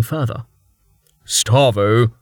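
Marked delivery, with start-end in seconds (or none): 1.2-2.1 scolding. Acted. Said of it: "Jameis said scoldingly".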